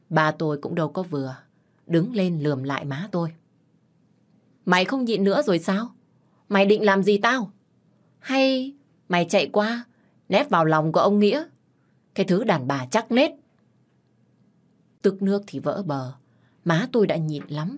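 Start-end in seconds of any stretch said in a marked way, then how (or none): 4.7-13.3 mocking angry taunt. Father taunts wife in quarrel.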